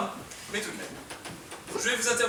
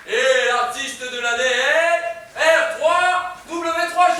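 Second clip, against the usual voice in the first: slow drawn-out winner announcement; dramatic reveal; 3 semitones higher, 5 dB louder, much slower than usual. Acted. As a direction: stretch the name out, rising to the end. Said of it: "Roulement de tambour".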